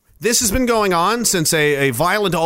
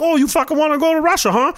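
high, fast sneering taunt; mocking thug taunt; 9 semitones higher, faster than usual. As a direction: jeer like a thug. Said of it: "And they're like".

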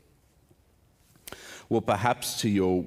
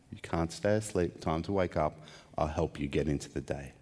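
speaking gently; 2 semitones lower than usual. Pretend. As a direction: gently coax a sleeper awake, like a parent. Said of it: "speaking gently".

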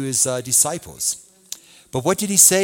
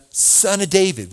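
retold cry; 5 semitones higher, 3 dB louder than usual. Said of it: "He was saying".

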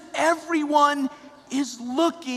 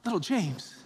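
softer, tender question; loving; 2 semitones lower, 5 dB quieter than usual. Retold or imitated. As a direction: speak gently to a struggling friend. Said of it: "looks at him with love and says".

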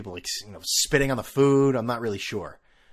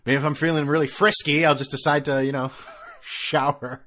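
louder, mock-naughty buildup, laughing at the end; playful tease; 3 semitones higher, 5 dB louder than usual. Traveler joking he might treat himself to an airport shower, laughing. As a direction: make a shower sound scandalous.

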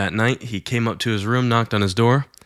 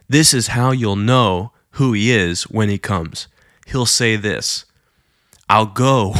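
reading prophecy aloud. Retold or imitated. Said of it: "He's reading it to".

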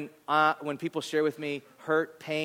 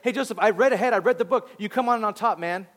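upbeat encouragement; 5 semitones higher, faster than usual. Retold or imitated. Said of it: "He's like".

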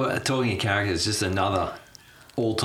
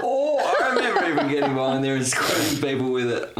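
1 laughing memory; 5 semitones higher than usual. Real, not acted. Laughing recollection.

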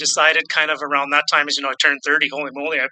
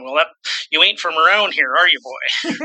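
mock country accent. Guest imagines Quebec listeners teasing him, mock country accent. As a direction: play a teasing country sheriff sizing up a stranger. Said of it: "the accent is".

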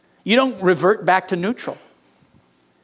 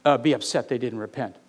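high, indignant mock accusation against God; mocking complainer; 6 semitones higher than usual. Preacher mimics a skeptic accusing God, indignant and high. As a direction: whine it up high like a sulky accuser. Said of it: "It sounds like".

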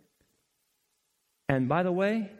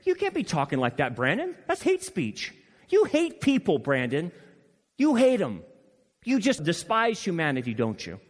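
mock accusing critic; 4 semitones higher, 3 dB louder than usual. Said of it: "they're gonna say".

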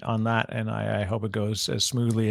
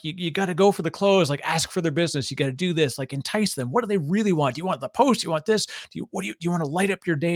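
higher-pitched mock sales coach; a touch of pushy salesman lecturing; imitated sales schooling; 5 semitones higher, faster than usual. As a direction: rattle off a lesson like an aggressive salesperson. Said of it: "schooling them".

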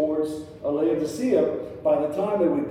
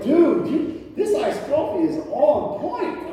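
much higher, laughing delight; excited; 12 semitones higher, 4 dB louder, slower than usual. Retold or imitated. Father telling son the iced coffee is great, excited. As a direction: gush over the coffee. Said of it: "I'm like".

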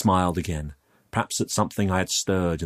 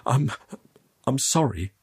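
nervous, halting higher voice; stammering; 6 semitones higher than usual. Acted. Youth caught in the vault apologises, stammering. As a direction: stumble timidly into the apology. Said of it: "I stammered".

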